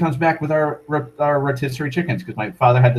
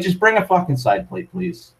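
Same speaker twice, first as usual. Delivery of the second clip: higher, sharp demand for a side plate; curt demand; 6 semitones higher than usual. Retold or imitated. Telling the waitress to just bring a side plate, curtly. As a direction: snap the order at the waitress.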